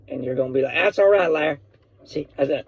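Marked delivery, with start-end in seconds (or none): 0.8-1.6 Jim Ross. Retold or imitated. Commentator forgiving the podcast host, lightly faked Oklahoman accent. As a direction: slip into a mock Oklahoman twang. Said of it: "I am the worst Oklahoman accent".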